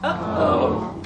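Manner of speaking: breathy bored Oh, flat and limp. Pretend. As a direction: let a bored Oh slip out. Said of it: "I'm bored".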